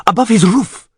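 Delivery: high, urgent exclamation; pointing-out shout. A narrator's reading. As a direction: shout where you see it. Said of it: "shouted Karayadan".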